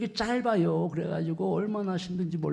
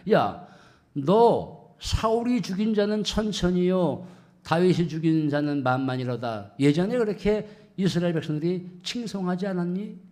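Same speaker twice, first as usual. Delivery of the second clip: mocking taunt. People taunting the fallen king David, mocking. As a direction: imitate scornful onlookers. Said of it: "조롱하고 비아냥거리는 거예요".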